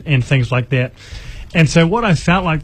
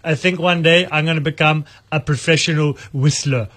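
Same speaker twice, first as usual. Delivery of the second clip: lightly voiced cartoon monarch; King Julian; 3 dB quieter than usual. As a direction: quote it in a comic accented character voice. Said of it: "The best King Julian line is".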